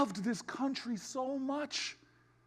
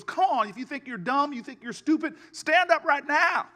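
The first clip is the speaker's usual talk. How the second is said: impatient teacher; 2 semitones higher, 5 dB louder than usual. Retold or imitated. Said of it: "the teacher stood there impatiently".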